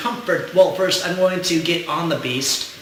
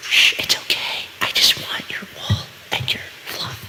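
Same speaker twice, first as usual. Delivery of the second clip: sweet nothings. Pretend. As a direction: whisper lovingly to calm the beast. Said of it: "Whisper sweet nothings".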